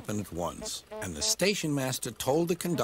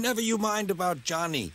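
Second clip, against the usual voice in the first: laughing; 7 semitones higher than usual. A narrator's reading. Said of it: "laughed the driver".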